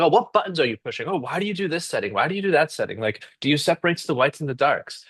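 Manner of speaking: mock curious questions, high and quick; a researcher lightly playing keen interest. Researcher to a host, curious and quick. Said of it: "And I'm like".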